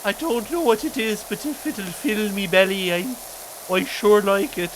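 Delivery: chirpy, cheeky urchin voice; a poor hungry kid begging for oats; lightly voiced starving urchin; street urchin Birdie. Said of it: "riff on a random character".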